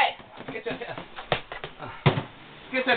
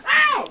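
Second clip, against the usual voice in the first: sharp cry of pain; 6 dB louder than usual. Real, not acted. Hurt while chasing bird.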